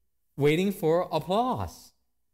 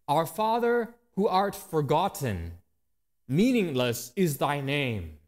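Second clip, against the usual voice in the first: mock prayer; slower than usual. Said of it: "we actually say".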